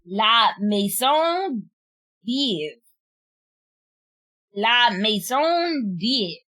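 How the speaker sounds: very slow La Maison Dieu, maison as may-ZOHN; careful French. Shown as a demonstration. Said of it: "I'm trying to say it properly".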